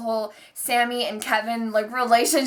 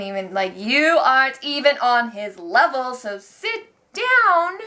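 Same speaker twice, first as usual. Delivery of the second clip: sassy put-down; slower than usual. Real, not acted. Telling Roman off.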